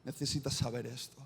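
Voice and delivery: Jesus quietly and firmly warning Peter; forceful Jesus. Acted. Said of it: "con contundencia le dice".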